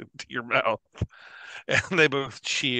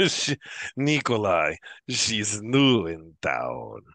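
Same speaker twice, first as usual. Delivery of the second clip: drawn-out relay; slower than usual. Acted. Drinker relays it to his pal.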